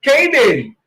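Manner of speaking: cabin said as "KEI-den"; mock the Caden mistake; wrong pronunciation. Shown as a demonstration. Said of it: "sometimes we mispronounce it as Caden".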